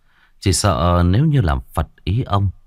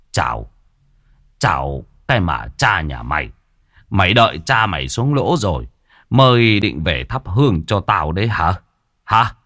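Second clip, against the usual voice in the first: a touch of a furious father's scold; hammed-up angry rebuke; mild mock scolding. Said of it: "miệng quát". (quát mắng nhẹ)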